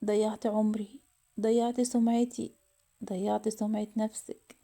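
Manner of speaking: understated tearful lament, slowing down; slow, grieving reproach without real sobs; crying hard. Acted. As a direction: mourn each loss slowly. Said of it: "فضلت تبكي جامد".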